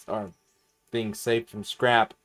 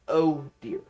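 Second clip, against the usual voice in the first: Duck impression; 4 semitones higher than usual. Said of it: "Everybody I know who does the Duck impression".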